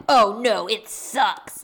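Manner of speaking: mocking jackass. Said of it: "he's just such a jackass".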